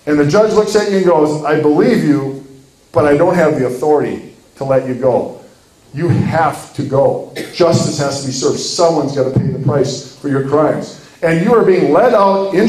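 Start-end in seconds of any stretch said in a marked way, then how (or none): 1.4-2.4 believe them, but hold firm; regretful firm judge. Acted. Judge answering the defendant's plea, soberly firm. 2.9-10.9 lightly voiced judge, lower and measured; believe them, but hold firm; regretful firm judge. Judge answering the defendant's plea, soberly firm.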